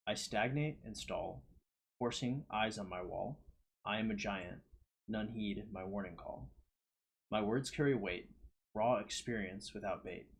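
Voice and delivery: measured, deliberate verse recitation with pauses between lines; poem reading. Acted. Reading own poem aloud to listeners, measured recitation. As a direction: recite it line by line, weighting key words.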